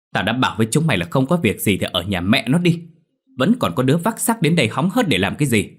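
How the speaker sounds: loud, rising angry rebuke; scolding shout. Acted. Măng yells at a curious intruder, angrily. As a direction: bark at the nosy villagers. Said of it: "Ông vội chạy ra quát tháo".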